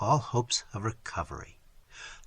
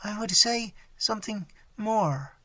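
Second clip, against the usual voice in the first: struggling; 7 semitones higher than usual. Acted.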